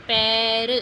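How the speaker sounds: पैर stretched slow so the ए sound stands out; slow teacher model of पैर; drawn-out demo. Shown as a demonstration. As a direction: hold the vowel in पैर. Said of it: "ए की आवाज़ आ रही है ना".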